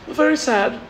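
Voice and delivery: lightly put-on composure; mock-dignified English mourner; mock British restraint. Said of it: "everybody's like".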